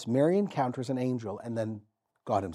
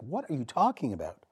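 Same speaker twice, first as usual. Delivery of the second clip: a light, rising voicing of startled Mary; Mary's mock disbelief; 3 semitones higher than usual. Preacher voices Mary doubting the angel with mild disbelief. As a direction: play Mary, unable to believe it. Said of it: "I guarantee she was like".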